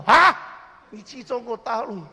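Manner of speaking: a sharp high gasp of disbelief, then the question; doctor shocked the patient went abroad, startled cry; doctor's surprise. Retold or imitated. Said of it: "他说：".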